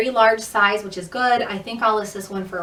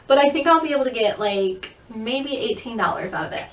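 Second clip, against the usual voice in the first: out of breath. Real, not acted. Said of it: "Whew, I'm out of breath".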